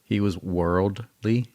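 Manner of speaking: slow, drawn-out worldly. Shown as a demonstration. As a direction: stretch the word worldly. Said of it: "I have to slow it down".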